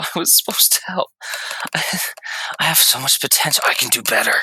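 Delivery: breathy, tearful, whispered mumbling. Voicing a burnt creature in a hole: crying and mumbling to himself. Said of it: "crying in this, like, burnt hole, just mumbling to himself".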